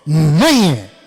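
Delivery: forceful preacher shout; loud. Acted. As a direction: declare it loudly. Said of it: "जोर से".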